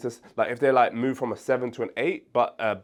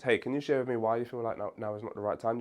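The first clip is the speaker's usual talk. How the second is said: softer, curious and collaborative question; soft, gentle ask; 5 dB quieter than usual. Shown as a demonstration. Coach to client, the soft collaborative way to ask. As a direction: invite them to open up, gently. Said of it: "Your tone here is very important".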